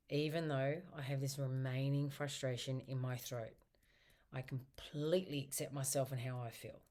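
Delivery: tapping affirmation. Shown as a demonstration. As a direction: recite it gently to yourself. Tapping setup statement recited.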